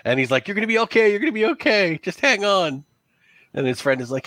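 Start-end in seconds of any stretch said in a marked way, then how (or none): 0.5-2.8 higher, urgent reassurance; panicked. Acted. Villager to dying companion he carries, panicked. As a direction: play a panicked man urging a friend to hold on. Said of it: "like, panicked".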